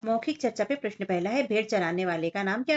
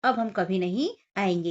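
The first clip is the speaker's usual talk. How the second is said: angry farmers; 3 dB louder than usual. Acted. Farmers scold the shepherd boy who lied again, angry. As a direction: scold the lying boy, fed up. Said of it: "किसानों ने कहा".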